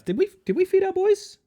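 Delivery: high cooing pet voice. Real, not acted. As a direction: coo to the cats. Cooing about the cats.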